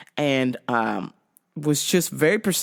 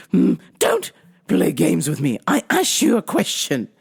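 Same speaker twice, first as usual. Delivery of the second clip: indignant mock-English scolding; affected English reprimand; phony English accent. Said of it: "phony English accent".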